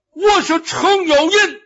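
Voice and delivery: put-on high, loud Shandong-accented announcement. Luo Cheng in disguise answers the enemy general, Shandong accent. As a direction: declare it boldly in a Shandong accent. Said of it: "罗成这就改了味儿了".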